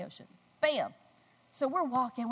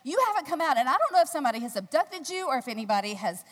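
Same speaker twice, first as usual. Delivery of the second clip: mock panic; 3 semitones higher, 6 dB louder than usual. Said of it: "He said".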